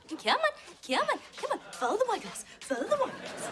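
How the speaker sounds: high-pitched luring, as if calling a pet; sing-song coaxing. Acted. Friend luring her to the chair with wine, high coaxing. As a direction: coax in a high repetitive chant.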